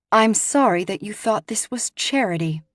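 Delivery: cool, superior disdain; a touch of icy hauteur; lightly voiced queenly coldness; haughty chill. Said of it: "with haughty chill".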